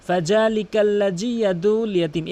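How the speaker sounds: "ফাযালিকাল্লাযী" with j, "ইয়াদুল" without ayn; mistaken recitation. Shown as a demonstration. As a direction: recite it the common wrong way. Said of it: "এভাবে বলে". (জিম দিয়ে ভুল তেলাওয়াত)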